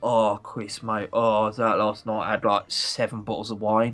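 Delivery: Essex boss impression. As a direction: mimic a groaning Essex boss the morning after. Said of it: "that little Essex accent I was doing".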